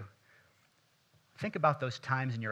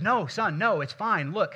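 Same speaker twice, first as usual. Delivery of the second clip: calling out to son; 7 semitones higher, 8 dB louder, slower than usual. Retold or imitated. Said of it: "and he goes".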